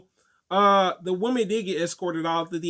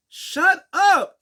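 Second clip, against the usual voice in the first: high, loud snapped command; angry man shushing the talker, loud and high; pissed shout; 9 semitones higher, 6 dB louder than usual. Retold or imitated. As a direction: bark it at the loudmouth. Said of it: "he was pissed".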